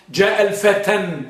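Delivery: الفتى wrongly ending in "-tan" with an audible n; slow جاء الفتى, closing on a nasal n; wrong tanween. Shown as a demonstration. Teacher shows what cannot be said, الفتى with a final n. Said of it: "لا يمكن أن تقول".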